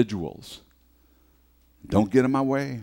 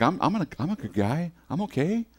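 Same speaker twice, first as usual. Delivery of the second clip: mock self-reassurance; 7 semitones higher than usual. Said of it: "you feel like".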